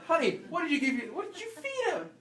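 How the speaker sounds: high, loud accusing yell at the spouse; shouting at spouse about the dog. Retold or imitated. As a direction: demand an answer from your spouse. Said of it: "you're gonna go".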